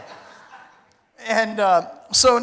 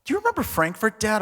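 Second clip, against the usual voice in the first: higher-pitched, lightly imitated child's question; lightly voiced kid; 5 semitones higher, faster than usual. Comedian's kids asking dad about Frankfurt, lightly voiced kid. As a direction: ask it as a kid would, lightly put on. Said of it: "when my kids talk about it".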